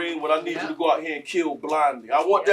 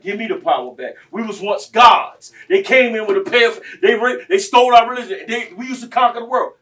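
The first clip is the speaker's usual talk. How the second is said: quoted father; 8 semitones higher, 9 dB louder than usual. Retold or imitated. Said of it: "And his dad, like".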